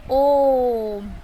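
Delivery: "ओम" with the ओ held three times as long, slow; "ओम" sung out on a long held ओ; prolonged vowel. Shown as a demonstration. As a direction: draw out "ओम" like a chant. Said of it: "तीन गुना समय".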